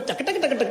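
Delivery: rapid spoon-on-dholak tapping sound; ढोलक-चम्मच ताल. Retold or imitated. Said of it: "ढोलक और चम्मच". (ढोलक पर चम्मच की नकल)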